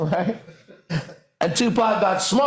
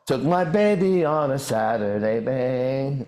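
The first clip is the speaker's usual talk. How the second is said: mimicking the song; 4 semitones lower, slower than usual. Shown as a demonstration. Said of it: "you just can't hear it".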